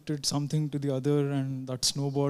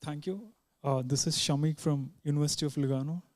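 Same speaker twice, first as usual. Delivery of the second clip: too quiet; 5 dB quieter than usual. Real, not acted. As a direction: introduce yourself too softly to carry. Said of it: "Can you speak louder".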